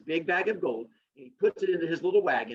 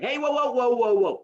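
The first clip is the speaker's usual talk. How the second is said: loud high whoa to calm a shouting crowd; 7 semitones higher, 4 dB louder than usual. Retold or imitated. Aesop calming the arguing townspeople, loud high whoa. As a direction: hold up a hand and settle them down. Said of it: "he's like".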